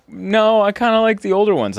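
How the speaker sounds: emphatic retort. Retold or imitated. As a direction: push back eagerly and fast. Retold own reply, higher and louder.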